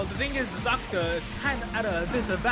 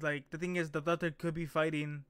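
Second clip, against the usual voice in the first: ordinary delivery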